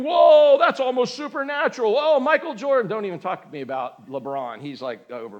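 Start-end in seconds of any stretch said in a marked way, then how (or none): 0.0-2.9 mock amazement. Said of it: "And we're thinking".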